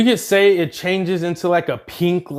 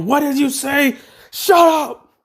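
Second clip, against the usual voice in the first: higher, snappy quarrel voices; bickering; 10 semitones higher than usual. Acted. Bakugo and Deku snap at each other, higher and sharp. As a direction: snap back mid-argument.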